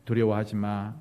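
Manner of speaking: steady them kindly; warm encouragement. Acted. Speaking like Moses to someone shaken, warm reassurance. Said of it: "따뜻한 그런 말들이".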